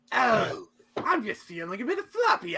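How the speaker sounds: high, whiny put-on voice; high-pitched character line. Retrying a character line about feeling floppy, put-on high voice. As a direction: wail it in mock distress.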